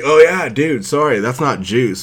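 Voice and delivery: loud, high, laughing through it; half laughing, half shouting the excuse; laughing bro excuse. Retold or imitated. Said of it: "So it's like".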